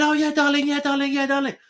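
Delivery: high, sing-song imitation of a masseuse; mock Leela voice. Quoting the masseuse on the phone, high and sweet.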